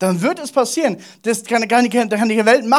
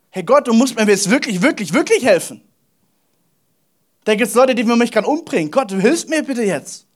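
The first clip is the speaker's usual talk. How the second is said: mildly acted desperate prayer; urgent plea; 2 semitones higher than usual. David begging God for rescue, urgent plea. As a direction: press God for help, insistently.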